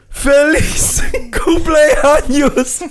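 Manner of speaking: high, very drawn-out bellow; hammed-up, stretched catchphrase yell; flexing wrestler catchphrase. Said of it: "flexes both muscles and goes".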